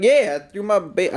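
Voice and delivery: half-hearted mock Southern comedian; poor Southern accent. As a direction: attempt a Southern accent and break off. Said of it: "I can't really do the Southern accent".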